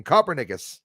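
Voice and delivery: Copernicus as "COPPER-nickus"; favourite mispronunciation. Shown as a demonstration. Host relishing an old mistake, favourite mispronunciation. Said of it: "I like saying Copernicus".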